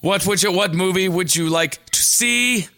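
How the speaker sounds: tense Malkovich-style delivery, drawn out at the end; speaking very directly. Acted. Child asking Dad about a movie, stiffly direct. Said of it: "speaking very directly, like, to a deaf person".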